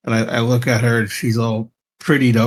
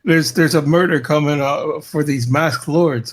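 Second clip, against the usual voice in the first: mock alarmed; 4 semitones higher than usual. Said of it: "stupid to tell her".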